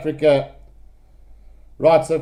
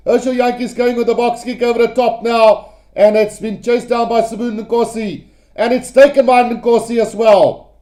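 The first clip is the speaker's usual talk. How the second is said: keyed-up live rugby commentary; slightly raised, eager commentator voice; excited play-by-play; 3 semitones higher than usual. Real, not acted. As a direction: follow the final attack with mounting urgency. Live play-by-play of final attack.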